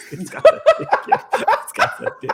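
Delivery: high, helpless real laughter through the words; laughing. Real, not acted. Host teasing his co-host for claiming fame, laughing. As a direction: crack up while talking, voice shooting up high. Host cracking up at co-host's joke.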